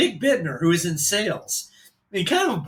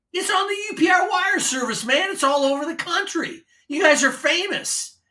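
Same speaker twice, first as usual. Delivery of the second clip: much higher hyped radio yell; DJ shout; 11 semitones higher than usual. Retold or imitated. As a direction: hype them up like a DJ. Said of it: "disc jockey sounding voice".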